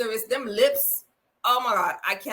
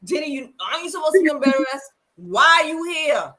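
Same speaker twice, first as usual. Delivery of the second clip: loud, higher demanding questions; pushy interrogation; 5 semitones higher, 6 dB louder than usual. Retold or imitated. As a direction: grill her like a nosy reporter. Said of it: "It was more so".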